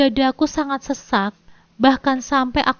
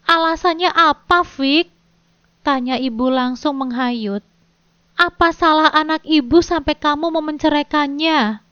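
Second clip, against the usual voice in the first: hoarse voice; 3 semitones higher than usual. Acted. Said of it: "Suara ibu terdengar serak".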